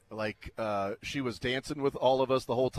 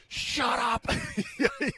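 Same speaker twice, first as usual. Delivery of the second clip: much higher and louder mock yell; heckling the singer from the crowd; teasing shout; 4 dB louder, much slower than usual. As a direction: bark it at the stage in fun. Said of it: "and I said".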